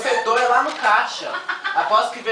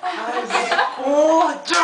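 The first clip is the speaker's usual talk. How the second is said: exclamação rindo nervosa; 9 semitones higher, much slower than usual. Real, not acted. Reação com medo, rindo.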